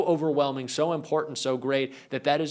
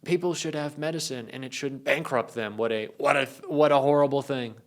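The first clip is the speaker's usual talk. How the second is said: lightly voiced mock Trump, half-hearted; a hint of Trump mocking free medicine; a lightly done Trump sneer about medicine; 2 semitones higher than usual. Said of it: "I keep doing the Trump voice".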